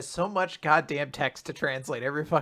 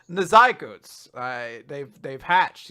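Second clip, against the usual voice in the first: slow, louder grand announcement; pompous hero; 9 dB louder, slower than usual. Retold or imitated. Cohost voicing All Might telling Fat Gum, slow and grand. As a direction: declare it solemnly and slowly.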